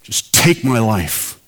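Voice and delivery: rising anguished plea, slow and pleading; desperate cry to God. Retold or imitated. Minister crying out to God in his car, anguished plea. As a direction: beg God to end it, voice cracking upward. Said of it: "He just blurted out".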